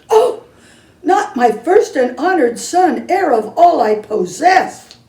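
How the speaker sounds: mother hearing her son fell in; alarmed. Acted. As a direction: gasp in shock and give orders.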